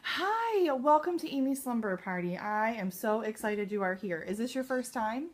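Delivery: high, loud, chirpy welcome to a guest; upbeat hostess hello; bubbly greeter demo. Shown as a demonstration. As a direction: greet her like you're thrilled she came. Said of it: "it sounds a little something like this".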